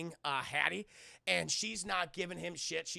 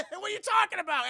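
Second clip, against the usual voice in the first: high, loud incredulous question; mock bafflement; 13 semitones higher, 10 dB louder than usual. Man accused by the brother, loudly and shrilly baffled. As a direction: squawk it in exaggerated confusion.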